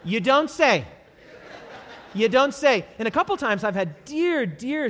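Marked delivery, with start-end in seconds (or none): 0.0-2.8 sarcastic you don't say. Retold or imitated. Sarcastic reply to praise.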